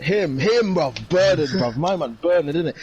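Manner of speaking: excited recognition. Real, not acted. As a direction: shout it out like you finally remembered. Hyped recognition of actor name.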